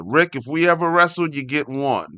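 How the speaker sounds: usual speaking voice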